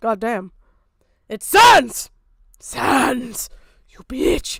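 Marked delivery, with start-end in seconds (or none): 1.3-4.6 exaggerated, loud, full-chested, over-the-top emotional cry. Showing how a line to Sans should be delivered, exaggerated emotive delivery. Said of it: "fucking emote more".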